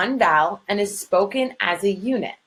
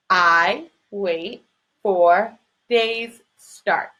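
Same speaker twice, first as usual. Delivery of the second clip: counting syllables; much slower than usual. Shown as a demonstration. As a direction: space out each syllable to count five. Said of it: "That's five syllables".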